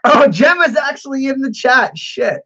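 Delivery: loud, high burst of surprise; startled surprise. Real, not acted. Streamer spots friend lurking in chat, startled. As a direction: blurt it out high, caught off guard.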